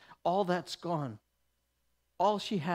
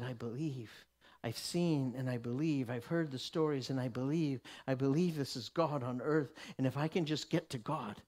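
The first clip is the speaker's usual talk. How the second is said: quiet inner conviction; 5 semitones lower, 4 dB quieter than usual. Acted. The woman's inner voice.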